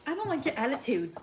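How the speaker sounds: sassy. Pretend. Sassing a caller named Jennifer before kicking her off, mock sassy. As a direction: give her some playful sass. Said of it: "I'm gonna sass her first".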